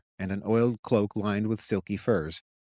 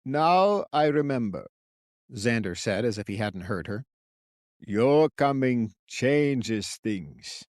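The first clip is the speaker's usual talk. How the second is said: put-on old man voice; slower than usual.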